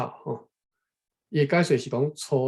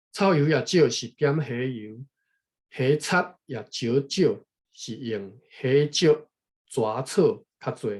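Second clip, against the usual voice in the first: slow text reading; 4 dB louder, slower than usual. Acted. Rereads the Taiwanese text slowly.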